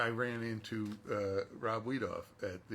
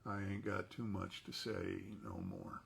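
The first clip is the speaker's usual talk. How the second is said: Dutch voice; 2 semitones lower, 5 dB quieter than usual. Acted. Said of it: "in a Dutch voice".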